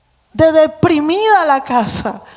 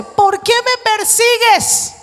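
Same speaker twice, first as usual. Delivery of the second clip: voice of God; 7 semitones higher, much slower than usual. Acted. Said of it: "la pregunta que le hace".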